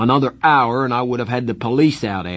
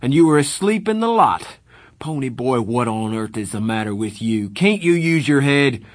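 louder, higher angry lecture; 5 semitones higher, 6 dB louder than usual. Acted. Darry lecturing Pony for sleeping out, angry. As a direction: give him a furious dressing-down.

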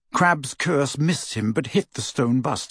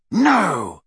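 raised, drawn-out cry of protest; shout; 4 semitones higher, 3 dB louder than usual. A narrator's reading. Malfoy restrains his henchman, shouting. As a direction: shout to stop him. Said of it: "shouted Malfoy".

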